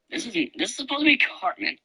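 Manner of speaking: high, cartoonish kid voice through a changer; voice changer Cartman. Gamer shows friends his Cartman voice changer, high cartoon kid. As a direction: play a squeaky cartoon boy through the filter. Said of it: "I will turn back on my voice changer".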